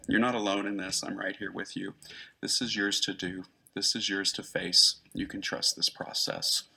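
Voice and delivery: calm a frightened client, gently; gently reassuring. Retold or imitated. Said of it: "gently said".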